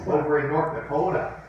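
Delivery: lightly put-on Minnesota accent; a touch of northern Midwest, North Dakota style; Upper Midwest accent. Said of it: "it's kind of a Minnesota, northern, upper, upper Midwest accent".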